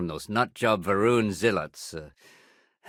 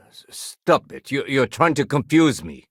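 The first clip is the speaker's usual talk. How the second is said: stammering, higher and louder objection; flustered protest; 5 semitones higher, 4 dB louder than usual. Acted. Telling someone to stop confusing them, flustered protest. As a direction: push back, thrown off balance.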